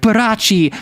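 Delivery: mock romantic. Doctor murmuring her name back, mock romantic. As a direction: play the cheesy lover lightly.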